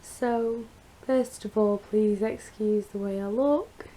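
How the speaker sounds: hoarse, croaky post-surgery voice; rough croaky throat after surgery. Real, not acted. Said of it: "my really croaky voice".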